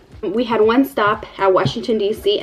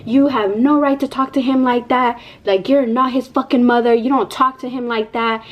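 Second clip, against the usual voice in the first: higher, indignant telling-off; retold upset scolding; 4 semitones higher than usual. Mom re-enacting telling the lady off, upset. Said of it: "And I was so upset".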